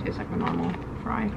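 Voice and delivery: speaking between bites; chewing while talking. Real, not acted. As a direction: mouth partly full of food. Seen 0: Bit a waffle fry at -3; her cheeks and lips still chewing while speaking.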